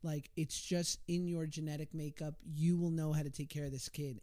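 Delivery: put-on light Boston accent, big brother; lightly imitating a thick Boston accent. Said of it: "this thick Boston accent".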